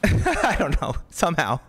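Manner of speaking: trying not to laugh. Real, not acted. Laughing at the friend's bad call.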